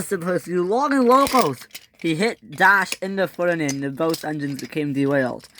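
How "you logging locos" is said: high, accusing shout; angry yell. A narrator's reading. Percy at Dash and Ferdinand, angry yell. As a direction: hurl it like an insult.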